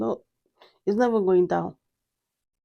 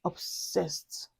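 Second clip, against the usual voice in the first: whispered; 9 dB quieter than usual. Real, not acted. Reviewer whispering how hooked she is on the scent. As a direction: breathe it out in a whisper. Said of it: "I just got so obsessed".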